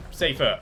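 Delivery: correcting a word: "Safer," stressed. Shown as a demonstration. Streamer corrects chat: stress on "Safer,". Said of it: "not safe".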